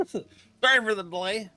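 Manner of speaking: laughing. Real, not acted. Laughing after choking off mic.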